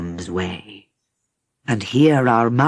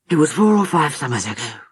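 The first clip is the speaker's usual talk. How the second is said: heavy and sad; faster than usual. Acted. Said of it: "His voice was heavy and sad".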